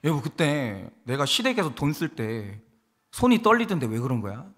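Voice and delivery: low, measured voice of a hurt spouse; calm spousal complaint. Acted. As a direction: quietly ask your spouse for an explanation. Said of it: "부부 관계에서도 이렇게 화를 내세요". (낮고 차분하게 따지는 배우자)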